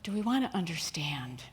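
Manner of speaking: hushed whispered question; soft, whispered sermon question. Real, not acted. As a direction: drop to a whisper to draw them in.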